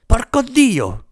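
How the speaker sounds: put-on high, slow, drawn-out old lady's curse; a hurt grandmother swears after falling, slowly and high; old woman cursing. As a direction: wail the curse like a toppled granny. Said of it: "bestemmiò la vecchia".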